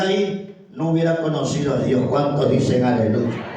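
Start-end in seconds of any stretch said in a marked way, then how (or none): 2.1-3.4 rallying call. Real, not acted. Preacher asks the church to give glory to God, rallying call. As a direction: build to a loud, stretched congregational call. Calling congregation for praise responses.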